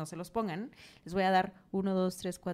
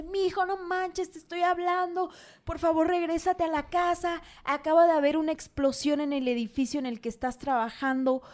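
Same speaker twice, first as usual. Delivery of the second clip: higher-pitched, pleading worried mom; worried mother; 5 semitones higher than usual. Acted. La mamá llama preocupada. (voz aguda de mamá angustiada)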